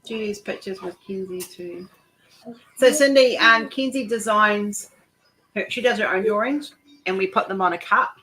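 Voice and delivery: talking round a lolly; mouth full. Real, not acted. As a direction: speak with a sweet in your mouth. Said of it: "pop a lolly in my mouth".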